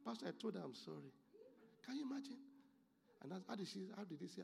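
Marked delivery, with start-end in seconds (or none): 0.0-1.1 softly imitating a meek husband; gentle mock sincerity. Husband pleading his case in counseling, mock gentle. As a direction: drop the volume, playing the reasonable one. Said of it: "sit down gently and say".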